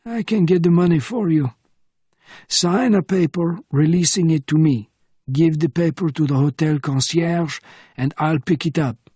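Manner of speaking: old French agent, brisk and helpful, lightly voiced; lightly voiced old Frenchman. Bernardin's voice, old man.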